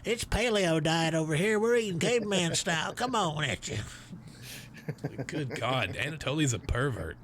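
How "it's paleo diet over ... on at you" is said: southern Anatoly voice. Pretend. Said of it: "talk like this the whole time".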